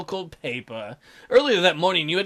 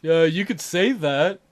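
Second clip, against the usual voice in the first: slow, mysterious man's voice; cryptic; 3 dB louder, slower than usual. Acted. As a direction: keep it vague and knowing. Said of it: "Mikey's voice was cryptic".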